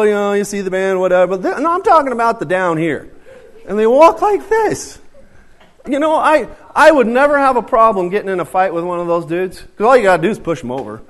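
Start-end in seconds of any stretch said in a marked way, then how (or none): 1.4-11.0 high, loud, laughing through the joke. Real, not acted. Preacher jokes to the congregation, laughing loudly. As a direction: chuckle while you tell it, louder and higher. Joking about pants, laughing.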